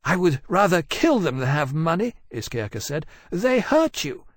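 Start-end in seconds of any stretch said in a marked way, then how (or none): 0.0-2.1 high, petulant dragon voice; bloodthirsty dragon. A narrator's reading. Fiery dragon arguing with her captain, petulant. Iskirka argues for killing the prisoners. 3.3-4.2 very high, aggrieved dragon voice; protective dragon. A narrator's reading. Fiery dragon defending her hurt captain, aggrieved.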